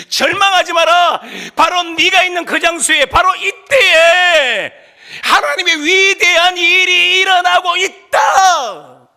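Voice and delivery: high, loud, stretched-out preaching cry; shouted proclamation. Acted. God speaking to those in despair, proclaimed at full force. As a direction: build to a slow, ringing shout. Voicing God's message to despairing.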